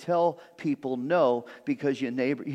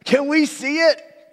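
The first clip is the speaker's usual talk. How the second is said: high, slow, drawn-out plea; hammed-up high-pitched onlooker; nosy neighbor; 9 semitones higher, 3 dB louder than usual. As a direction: beg for a peek like a pestering neighbor. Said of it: "there's that one guy".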